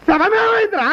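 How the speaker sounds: high, alarmed demand; shocked yell about the missing corpse; alarmed shout. Acted. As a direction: cry out in disbelief. Shock that the body is gone.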